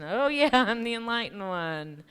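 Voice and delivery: laughing mock-serene claim to enlightenment; sarcastic laughing self-mockery. Mocking herself for snapping at Lynn, laughing. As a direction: laugh through it, mocking your own holiness. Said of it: "And then".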